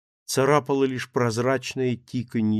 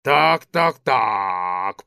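put-on boozy, drawn-out drunk voice; drunken voice; 2 semitones lower, 5 dB louder, much slower than usual. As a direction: sound like a sozzled old drinker. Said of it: "пропитым голосом басил он".

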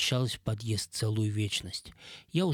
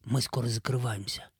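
playful whisper. Acted. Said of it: "игриво шепнула".

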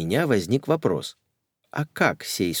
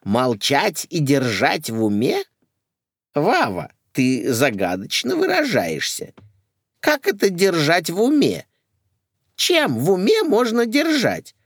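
baffled; 9 semitones higher, 4 dB louder than usual. Acted. Lady baffled, protesting.

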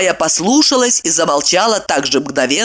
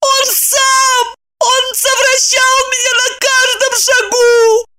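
much higher crying wail; 3 dB louder than usual. A narrator's reading. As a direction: sob out the accusation. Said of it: "вопила она".

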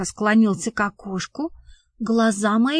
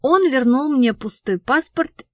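ordinary delivery, nothing marked

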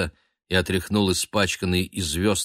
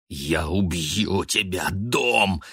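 gasping; much slower than usual. A narrator's reading. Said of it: "задыхался он".

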